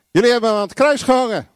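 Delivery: quick, high-pitched charge; preacher's forceful, rapid accusation; blunt accusation. Acted. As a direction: confront them head-on, no softening. Corrects it with Peter's real accusation.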